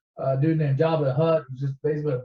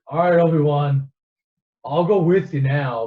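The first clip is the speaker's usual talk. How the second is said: eager mock Luke; 6 dB louder than usual. Luke suddenly eager to leave.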